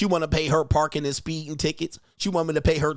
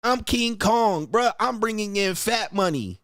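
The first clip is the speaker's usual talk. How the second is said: higher, slow chest-thumping I'm King Kong; slow boast; 5 semitones higher than usual. Acted. Husband boasting to his wife that he's King Kong. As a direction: brag it big and slow.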